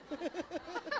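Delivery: high bursting laugh; real high giggle. Real, not acted. Laughing at anecdote.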